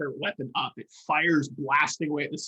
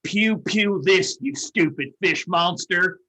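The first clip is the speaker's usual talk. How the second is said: slow taunt; 3 semitones higher, 4 dB louder, slower than usual. Acted. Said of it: "and I'm like".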